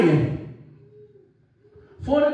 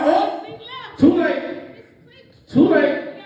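high too late; 10 semitones higher, 3 dB louder, much slower than usual. Acted. Noah refusing latecomers.

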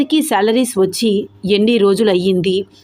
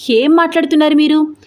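ఏం stressed in a raised angry cry; angry outburst; 7 semitones higher than usual. Acted. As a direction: blow up at the staff in disbelief. Boss hears no salaries paid.

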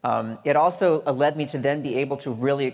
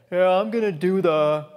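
a hint of a curt coffee-shop customer; rude customer; 6 semitones higher, 5 dB louder than usual. Mimicking an impolite adult ordering coffee. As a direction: toss off the order without please. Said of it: "I hear them say".

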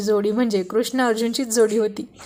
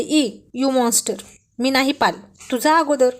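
mock disgust; 3 semitones higher, 3 dB louder than usual. Wife's playful disgusted retort to husband.

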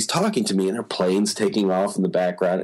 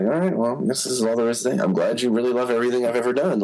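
hurried polite brush-off; 3 semitones higher, faster than usual. Retold or imitated. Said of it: "and then it's like".

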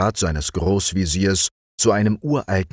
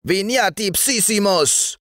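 much higher, far-off demon roar; booming devil voice; 14 semitones higher than usual. A narrator's reading. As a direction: bellow the Latin like a fiend. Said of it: "brüllte sein".

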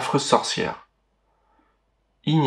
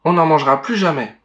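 louder, panicked promise; frightened; 4 semitones higher, 4 dB louder than usual. Acted. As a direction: plead in fear. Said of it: "apeurés".

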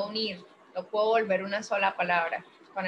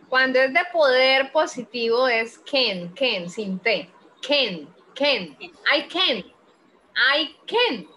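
louder, "can" without a T; emphatic teaching; 6 dB louder, slower than usual. Shown as a demonstration. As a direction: drill "can" loudly for the student. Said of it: "Así, mira, así".

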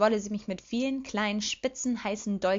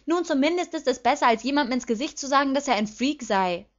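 higher, raised, incensed retort; 5 semitones higher, 5 dB louder than usual. A narrator's reading. Lilly retorts to her accusing sister, incensed. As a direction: snap back indignantly. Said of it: "erwiderte ich erbost".

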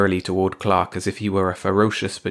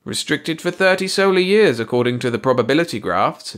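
musing alien voice; 6 semitones higher, 4 dB louder than usual. A narrator's reading. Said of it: "mused Baldy".

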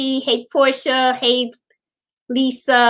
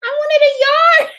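dismayed; 5 dB louder, much faster than usual. Retold or imitated. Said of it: "And I said".

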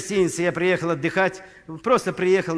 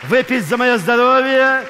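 raised toast; 5 semitones higher, 6 dB louder than usual. Real, not acted.

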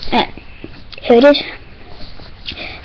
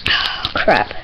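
low groaning whisper; 13 semitones lower, 7 dB quieter than usual. Real, not acted. About to eat sour candy.

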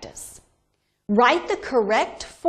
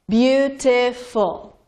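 Beautiful drawn out slowly, each syllable clear; slower than usual. Shown as a demonstration. Teacher modelling Beautiful for students, slow and clear. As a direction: stretch out Beautiful so students count beats. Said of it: "Three syllables".

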